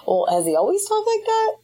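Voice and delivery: puzzled question on the edge of laughter; baffled onlooker. Retold or imitated. Onlookers reacting to the odd voice, mock bafflement.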